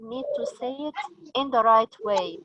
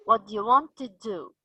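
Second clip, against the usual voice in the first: final DO stressed, first DO left weak; stressed main verb. Shown as a demonstration. Teacher explaining the main verb, final DO stressed. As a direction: lean on WANT and the last DO. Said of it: "but we stressed on".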